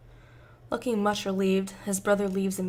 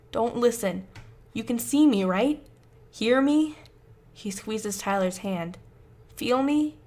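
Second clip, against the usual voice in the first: urgent pleading; 3 dB louder than usual. Acted. Josh urgently pleads with Tyler.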